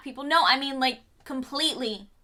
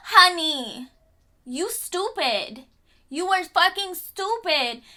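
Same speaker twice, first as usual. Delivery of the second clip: high laugh then slow sassy put-down; laugh, then drawl the insult at them; 4 semitones higher than usual. Real, not acted. Vlogger mocking the showrunners, laughing then slow and sassy.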